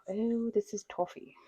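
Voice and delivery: put-on a slow, jokey, half-hearted British accent copying a TV judge; mock the baking show judge in a bad British accent; crappy British accent. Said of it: "Sorry for my crappy British accent".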